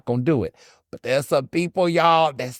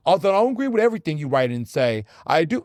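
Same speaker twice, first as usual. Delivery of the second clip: mock pretentious; 3 semitones higher than usual. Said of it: "be like".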